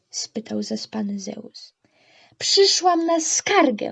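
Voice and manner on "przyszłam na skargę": thundering, pitched-up, booming bellow. A narrator reads Demeter's reply to a sleepy Zeus at dawn, booming. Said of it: "huknęła Demeter".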